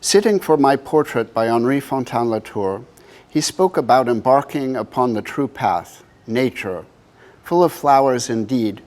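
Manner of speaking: measured reading in phrases set apart by pauses; poetry reading. Acted. Artist reads the poem at the book's first presentation, measured poetry reading. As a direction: read it as verse, leaning into each phrase opening.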